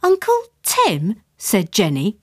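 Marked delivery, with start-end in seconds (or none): 0.0-1.2 high, slow questioning echo; baffled high-pitched query; bewildered. A narrator's reading. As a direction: repeat it slowly in disbelief.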